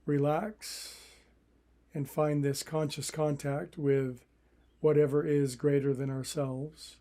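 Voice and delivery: calm, even meditation guidance with long pauses; unhurried meditation teacher, phrase by phrase; guided meditation. Acted. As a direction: guide listeners into relaxing, leaving room to breathe.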